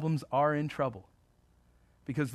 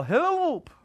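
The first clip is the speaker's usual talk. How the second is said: laughing yell; 13 semitones higher, 5 dB louder than usual. Acted. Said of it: "you're gonna yell".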